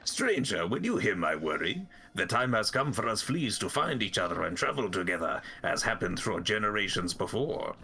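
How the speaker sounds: put-on lilting storybook French-Russian accent. Flea master shares worry with stranger, French-Russian accent. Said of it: "French Russian, both at once".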